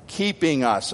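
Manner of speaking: "keeping" set off and emphasized; stress on "keeping". Real, not acted. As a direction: lean on "keeping". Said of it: "I emphasize that word".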